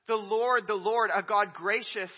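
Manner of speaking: loud, rising proclamation; ringing call from the pulpit; proclaimed. Real, not acted. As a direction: announce the Lord's name with force. Preacher proclaiming the divine name.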